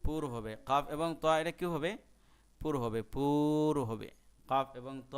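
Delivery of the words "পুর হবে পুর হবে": slow repetition. Shown as a demonstration. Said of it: "আমি আবারও বলতেছি".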